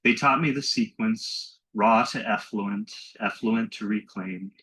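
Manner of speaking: slow, measured poem recital; poetry reading. Acted. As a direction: read it as verse, lingering on each line. Reads own poem aloud.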